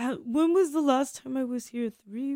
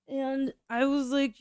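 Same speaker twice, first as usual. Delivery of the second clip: usual speaking voice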